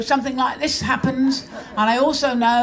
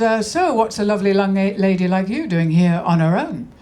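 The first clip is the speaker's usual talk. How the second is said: cheesy chat-up line; 4 semitones lower than usual. Retold or imitated. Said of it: "he goes".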